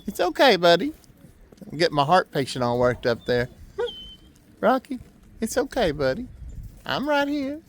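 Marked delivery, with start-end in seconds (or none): 0.1-0.9 higher, gentle pet talk; soothing the dog. Real, not acted. Owner reassures anxious heart-patient dog, high gentle pet talk. 4.6-7.6 higher, gentle pet talk; calm him down, sweet and soft; soothing the dog. Real, not acted. Owner reassures anxious heart-patient dog, high gentle pet talk.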